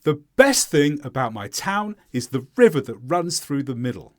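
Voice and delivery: falling statement, weight on "town" and "river"; stressed content words. Shown as a demonstration. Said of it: "Now you try".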